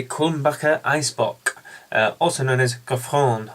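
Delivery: German pronunciation of the beer name; German accent. Shown as a demonstration. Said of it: "in my best German accent".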